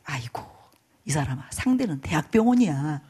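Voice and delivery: lightly acted, subdued protest; crestfallen. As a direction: imitate a deflated husband, starting almost in a whisper. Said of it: "그 풀 죽은 소리가 들려요".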